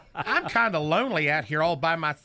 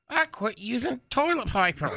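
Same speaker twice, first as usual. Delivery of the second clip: Knucklehead's voice; 5 semitones higher than usual. Acted. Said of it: "still doing Knucklehead's voice".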